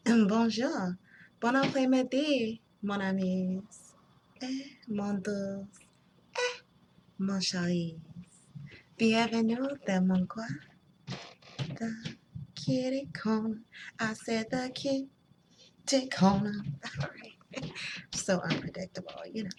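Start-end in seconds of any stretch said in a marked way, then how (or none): 0.1-13.6 lightly put-on French accent; playful French greeting. 14.0-16.5 "Kitty Corner" drawn out slowly; slow, mock-insistent "Kitty Corner"; playful emphatic repeat. Emphatic repeat of channel name.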